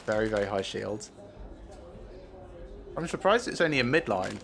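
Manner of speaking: talking with a mouth full of sweets; chewing sweets while talking. Real, not acted. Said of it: "I'm now eating sweets".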